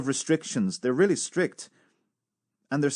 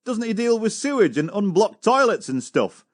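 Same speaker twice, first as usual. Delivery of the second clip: quoting the cadet; 8 semitones higher, 4 dB louder than usual. Retold or imitated. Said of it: "He said".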